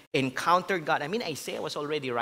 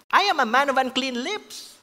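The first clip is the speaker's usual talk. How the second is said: higher and louder, crying out as the ruined prophet; anguished cry; 10 semitones higher, 7 dB louder than usual. Acted. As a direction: cry it out in despair. Preacher voices Isaiah's despair.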